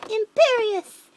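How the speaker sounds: loud, high, drawn-out incantation; shouted spell. A narrator's reading. Dark wizard casting a curse on the girl, shouted spell. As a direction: hurl the curse out loud and slow. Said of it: "but Voldemort shouted".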